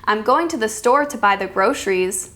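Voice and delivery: even statement dropping on "groceries"; plain statement with a falling end on "groceries"; falling intonation. Shown as a demonstration. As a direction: let "groceries" fall to a close. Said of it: "That's falling".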